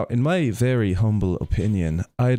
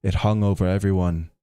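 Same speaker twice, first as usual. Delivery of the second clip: measured storyteller, projected a little; story narration. A narrator's reading. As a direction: read the legend aloud with steady weight. Reads Brian Boru story aloud.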